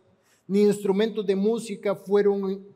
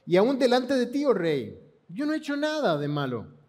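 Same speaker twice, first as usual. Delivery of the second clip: joyful voice. Acted. Daniel answers the king from the pit, mildly joyful. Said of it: "con voz de gozo".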